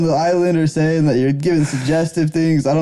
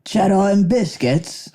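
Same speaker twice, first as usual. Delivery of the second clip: put-on English accent; 3 semitones higher, much slower than usual. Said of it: "Say cheddar and biscuits in your English accent".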